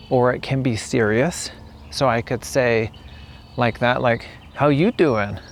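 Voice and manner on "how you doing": playful, flirty "How you doing"; a lightly joking greeting; flirtatious. Shown as a demonstration. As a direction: tease it a little. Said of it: "A little flirtatious or funny or joking".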